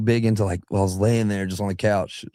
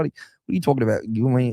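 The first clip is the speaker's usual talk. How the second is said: Australian voice demo; 3 semitones higher than usual. Shown as a demonstration. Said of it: "it's just right out the front of your mouth".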